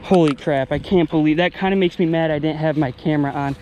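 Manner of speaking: loud frustrated exclamation; excited. Real, not acted. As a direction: blurt it out, annoyed. Missed filming big catch.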